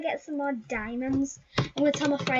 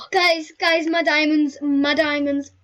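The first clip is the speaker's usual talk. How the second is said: lament; 5 dB louder than usual. Real, not acted. Mourning spent diamonds.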